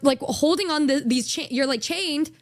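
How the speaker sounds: normal talking voice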